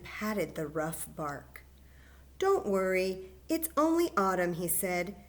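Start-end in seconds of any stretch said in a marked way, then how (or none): 2.4-4.5 reassuring little bear. Acted. Fletcher repeats mother's comfort.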